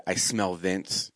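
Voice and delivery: low, slow, quiet pronouncement; slow, hushed mock suspicion; ominous catchphrase. Shown as a demonstration. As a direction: drop low and draw it out.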